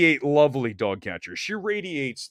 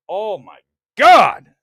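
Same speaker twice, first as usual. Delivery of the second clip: swooning; 4 semitones higher, 12 dB louder, slower than usual. Real, not acted. Gushing over Elizabeth Olsen.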